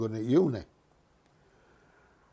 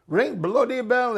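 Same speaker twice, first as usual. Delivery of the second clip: high, slow exasperated call; fed-up crowd; 12 semitones higher, 5 dB louder than usual. Retold or imitated. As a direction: drag it out like a whole bus losing patience. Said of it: "everybody's saying".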